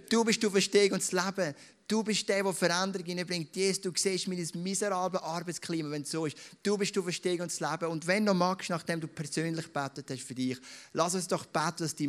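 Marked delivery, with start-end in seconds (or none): 0.1-7.9 modelled prayer. Shown as a demonstration. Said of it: "du darfst es wirklich auch laut sagen und sagen".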